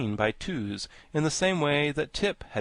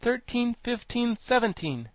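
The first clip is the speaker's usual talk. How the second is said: tag; 12 semitones higher than usual. A narrator's reading. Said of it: "counted Tip".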